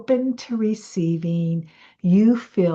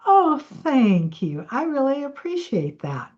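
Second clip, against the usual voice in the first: gracious thanks; 6 semitones higher than usual. Retold or imitated. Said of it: "Or did you say".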